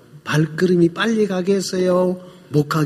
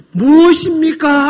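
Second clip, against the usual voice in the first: quick, high, overeager asking; flippant eager question; 10 semitones higher, 9 dB louder than usual. Retold or imitated. Son blurting at the healer, high and eager. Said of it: "하고 막 이렇게 막 방정맞게".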